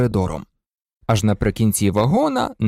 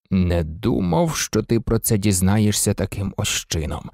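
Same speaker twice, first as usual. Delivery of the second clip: agitated; 6 semitones lower than usual. A narrator's reading. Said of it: "розхвилювався містер Візлі". (стримано схвильовано)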